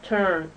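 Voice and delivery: "turn" said clearly with a long, voiced ending; teaching "turn" with a drawn-out voiced n; model word. Shown as a demonstration. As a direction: sound out "turn" slowly so the n hums. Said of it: "Say turn".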